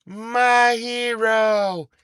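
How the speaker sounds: high, very slow swoon; swooning damsel. Acted. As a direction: sigh it like a rescued maiden. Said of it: "I just did a play for y'all".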